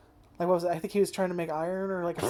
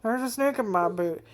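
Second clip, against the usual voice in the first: a touch higher pull-string toy voice; lightly voiced pull-string doll; talking doll; 4 semitones higher than usual. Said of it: "You, you pull his string and he says".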